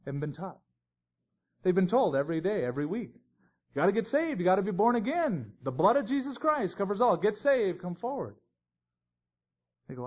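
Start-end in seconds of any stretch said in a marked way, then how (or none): 3.1-8.3 imitating an altar-call preacher, high-pitched and insistent; high, sing-song mock evangelist plea. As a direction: stretch it out like a preacher urging sinners forward. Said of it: "they've been preached to for too long".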